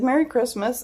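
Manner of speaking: high, mock-tearful voice; small, high-pitched weepy well-wishing; imitated tearful reply. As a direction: act out answering while close to sobbing. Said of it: "I cried for, just sobbed".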